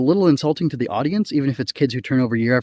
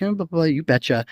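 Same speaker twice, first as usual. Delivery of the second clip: mock Minnesota accent; 4 semitones higher than usual. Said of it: "She's like".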